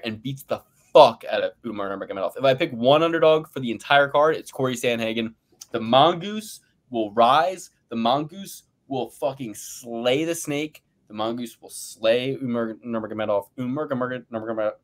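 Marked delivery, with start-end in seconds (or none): 5.7-13.5 drawn-out grand prophecy, word by word; slow epic proclamation. Acted. Hyping his underdog pick to the crew, slow and grand. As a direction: announce it like a fight poster slogan.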